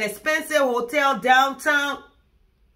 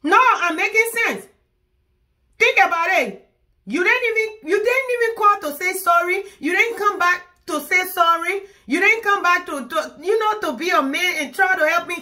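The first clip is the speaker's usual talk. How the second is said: heated rant; 6 semitones higher than usual. Acted. Ranting at partner on phone.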